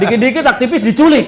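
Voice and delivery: wry laugh through the words; half-laughing at a grim memory. Real, not acted. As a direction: let a bitter chuckle colour it. Laughs while listing past repression.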